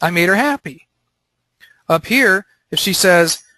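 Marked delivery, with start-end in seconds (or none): 0.0-0.9 smug self-talk. Retold or imitated. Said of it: "I get to say to myself".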